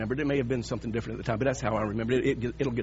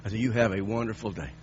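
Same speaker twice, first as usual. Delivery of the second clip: sincere; 5 semitones lower than usual. Retold or imitated. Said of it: "with the most sincerity and meaningfully".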